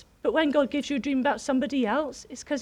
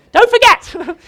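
calling out; 9 semitones higher, 15 dB louder, slower than usual. Retold or imitated. Calling after the son.

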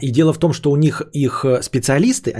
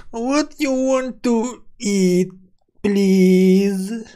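broken English waiter; 6 semitones higher, much slower than usual. Acted. Waiter tries English on Frenchman.

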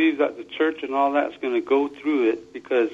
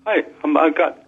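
phone speaker; 2 semitones higher than usual. Real, not acted. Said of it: "I put you on speaker".

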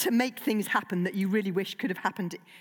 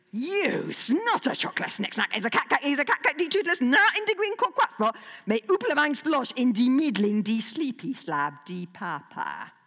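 cross dragon speech; 3 semitones higher than usual. Acted. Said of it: "pointing at a large poo".

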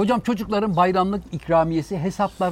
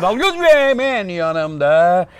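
grand announcer. Acted. Pompous host introducing guest titles.

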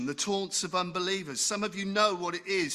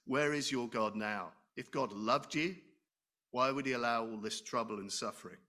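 softer, lower sneering inner whisper; nagging taunting voice; 5 semitones lower, 4 dB quieter than usual. Acted. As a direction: needle him like a doubt in the head. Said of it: "And that little nagging, taunting voice says".

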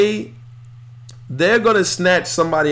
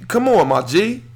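ordinary talk, nothing marked

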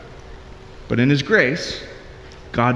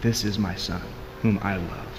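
softer and lower, tender and intimate; hushed voice of God; 5 semitones lower, 8 dB quieter than usual. Retold or imitated. Preacher voicing God's love softly to the congregation. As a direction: let it fall low and soft like a secret. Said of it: "God lets us into this eternal mystery by saying".

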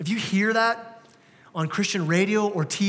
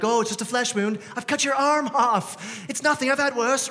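a hint of the Black Knight, breezy, higher; lightly voiced plucky knight, higher; Black Knight impression; 3 semitones higher than usual. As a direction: shrug off a lost arm lightly. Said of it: "Monty Python Dark Knight thing".

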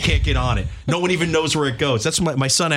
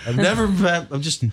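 put-on drunk and sappy. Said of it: "pretend right now you're drunk".

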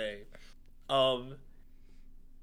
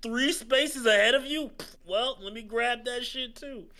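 lightly mocked game rival, pitched up; a hint of a smug, higher-voiced opponent; Toad; 5 semitones higher than usual. Loser imitates the computer player grabbing stars, light mockery. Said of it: "Fucking Toad be like".

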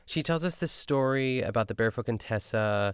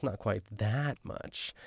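slow and softer, a light hostess imitation; Ina Garten cadence; 5 dB quieter, slower than usual. Repeating the host's line, slower and softer, lightly imitated. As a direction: ease it out slowly, barely above a murmur. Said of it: "that Ina Garten cadence".

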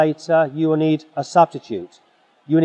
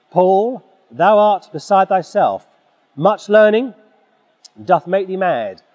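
loud voice; 2 semitones higher than usual. Shown as a demonstration. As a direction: boom it out like Festus mocking Paul. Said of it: "Festus says with a loud voice".

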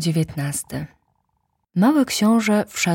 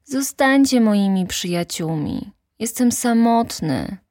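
put-on higher, childlike plea for friends; lonely little prince; 6 semitones higher than usual. The little prince calls to the mountain, higher and lonely. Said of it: "powiedział".

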